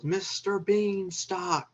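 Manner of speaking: high, drawn-out mock yell of a name. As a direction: imitate an assistant hollering for the boss. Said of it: "and she yells".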